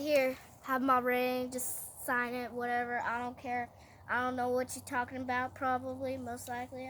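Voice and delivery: soft, offhand careless king. Retold or imitated. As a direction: hand it over without caring. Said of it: "He's like".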